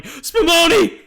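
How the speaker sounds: high, loud yell through laughter; laughing mock yell. Retelling Jackie yelling the safe word, laughing mock yell. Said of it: "Jackie just constantly yelling".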